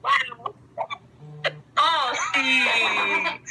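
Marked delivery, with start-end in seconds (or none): 1.8-3.4 loud, laughing call to Steve; laughing shout. Real, not acted. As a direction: shout his name through a laugh. Calling out, laughing.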